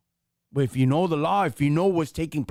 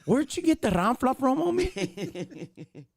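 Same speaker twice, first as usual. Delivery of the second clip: higher, heated street grilling; mock interrogation; 8 semitones higher than usual. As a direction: pepper him with questions, voice up. Role play grilling the agent.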